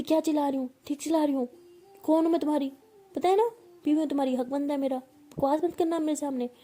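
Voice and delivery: wife yells about her rights over her partner; shouting. Acted. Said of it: "तुम मुझे पे चिल्ला क्यों रही हो".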